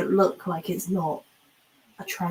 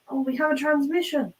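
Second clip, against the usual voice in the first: higher-pitched acted announcement; alerting crewmate; 8 semitones higher than usual. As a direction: announce it as a crew member would, voice raised in pitch. Acting out a crew member's announcement.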